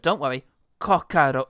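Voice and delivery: loud Cuban-accented "cockroach"; punchy, practised Cuban accent. Shown as a demonstration. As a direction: put on a mock Cuban accent. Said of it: "work out on that accent as well".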